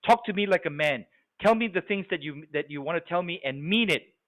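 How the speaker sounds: mock-impatient loud talker; loud, blunt talker. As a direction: challenge them bluntly, hitting HEY hard. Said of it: "someone that talks really loud".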